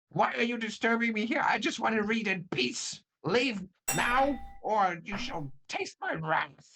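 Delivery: shrill, very high, screeching, upset voice. Narrating a scene as an unseen voice rings out: high-pitched screechy upset voice. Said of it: "high pitched, uh, screechy voice, very upset sounding".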